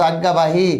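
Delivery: আজ্ঞাবাহী said with জ্ঞ sounding like গ্গ, aggabahi; teacher showing how আজ্ঞাবাহী is spoken; pronunciation demo. Shown as a demonstration. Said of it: "উচ্চারণটা হবে গ্যাগার মতো".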